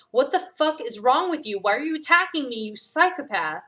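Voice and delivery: what the hell, shouted at the attacker; angry shout. Acted. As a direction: bark it out in outrage.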